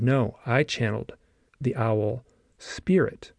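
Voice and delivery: slow, deliberate stress on the owl spirit; clear and deliberate. Retold or imitated. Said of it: "she said it very clearly like that".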